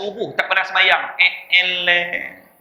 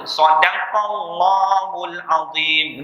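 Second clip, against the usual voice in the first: mock pious recitation; much slower than usual. Mocking slow pious recitation.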